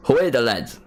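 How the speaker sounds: Geordie attempt slipping into Irish; botched Geordie accent. Streamer copies his friend's clip, botched Geordie accent. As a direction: copy a Geordie chant and land in Irish. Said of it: "why am I doing an Irish accent?".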